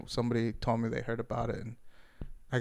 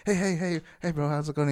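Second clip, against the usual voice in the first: higher-pitched mock-innocent greeting; feigned casual friendliness; 4 semitones higher than usual. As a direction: play it innocent, as if nothing happened. Covering up, greets revived man.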